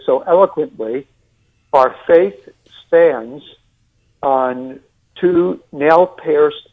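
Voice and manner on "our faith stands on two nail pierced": put-on slow, drawn-out New York accent. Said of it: "Forgive my New York accent".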